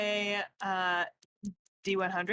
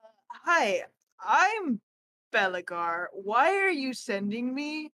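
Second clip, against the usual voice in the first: put-on Irish accent; 3 dB louder than usual. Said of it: "Why is he Irish?".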